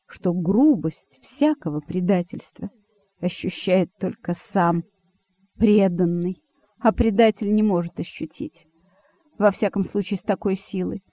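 ordinary delivery, nothing marked

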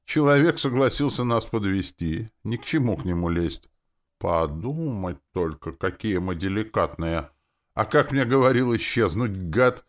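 high-pitched indignant complaint. A narrator's reading. Demoness complaining about her host, indignant. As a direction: work up into loud indignation. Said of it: "принялась возмущаться Настя".

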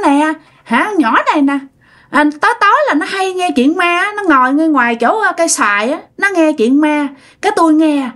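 a hint of a chatty ghost girl; girl's voice. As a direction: tell on her in a mild girlish voice. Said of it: "bây giờ nói giọng con gái luôn".

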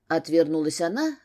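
ordinary delivery

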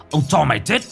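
furious hiss. A narrator's reading. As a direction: snarl the threat. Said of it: "Ông rít lên". (rít lên đe dọa)

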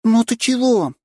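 put-on high, bright little-girl voice defending her rooster; childlike redhead girl. A narrator's reading. Young redhead girl protecting her rooster, high girlish voice. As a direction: play a tiny girl pleading for her pet.

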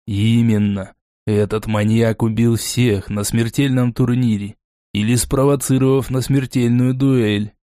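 a touch of the know-it-all teacher; lecturing. Acted. Foger explaining Borey to Lona, lecturing. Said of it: "менторским тоном пояснил ей Фогер".

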